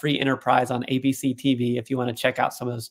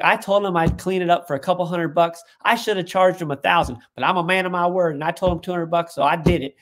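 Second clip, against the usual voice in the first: imitated indignant uncle, pitched up; retold anger; 4 semitones higher, 3 dB louder than usual. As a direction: retell his grievance with mild heat. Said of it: "he was just angry".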